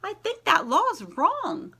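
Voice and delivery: slow, lilting read-aloud voice; gentle picture-book narration with rhyming lilt; storybook reading. Acted. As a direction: read it to a class of young kids. Teacher reads picture book aloud.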